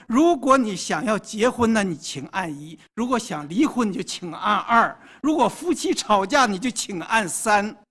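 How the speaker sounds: recorded phone menu voice; robocall. Acted. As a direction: rattle off the options like a machine. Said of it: "他就会继续问你说". (自动答录机的语音)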